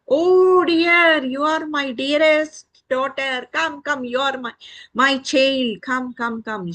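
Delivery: high, delighted mother hen; loving mother hen. Acted. Hen greets her dearest daughter, high and delighted. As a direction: gush loudly, then call the chick in.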